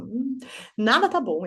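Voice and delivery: put-on slow, sulky grumble of a grey-faced child. A grumpy child sulking to his mother, slow and whiny. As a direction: drag it out like a child nothing pleases. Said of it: "a carinha dele fica assim".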